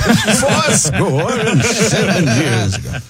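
slow, laughing Lincoln voice; Lincoln impression. Comic asked for Lincoln, slow stately voice. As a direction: drag it out like Lincoln. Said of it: "do Abe Lincoln?".

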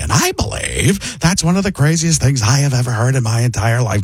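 brought-down, emphatic actor impression; Paul Giamatti. Shown as a demonstration. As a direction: settle the voice down and declare it. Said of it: "and it becomes Paul Giamatti".

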